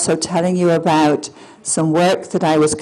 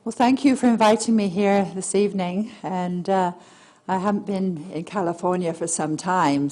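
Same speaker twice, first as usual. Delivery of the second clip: soft voice; 5 dB quieter than usual. Real, not acted. Speaker thanking her hosts in her naturally soft voice. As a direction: speak gently, barely projecting. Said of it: "I have a soft voice".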